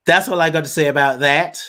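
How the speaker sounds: hint of a simple-hearted film hero's catchphrase; Forrest Gump. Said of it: "That's my best, um, version of".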